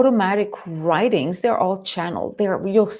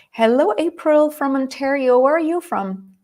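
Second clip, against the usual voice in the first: excited greeting; 6 semitones higher, 5 dB louder than usual. Real, not acted. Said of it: "I got excited about that".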